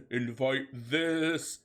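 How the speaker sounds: mild mock shout. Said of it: "shouted Garfield".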